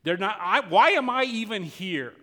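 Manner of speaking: loud, high despairing cry; anguished outcry. Acted. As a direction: cry out why am I even here. Elijah's despair voiced.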